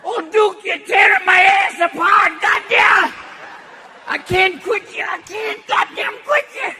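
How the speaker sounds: put-on high, loud whiny old coot; high loud old-timer wail; Walter Brennan. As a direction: squeal it high like a grizzled sidekick. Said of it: "Walter Brennan going".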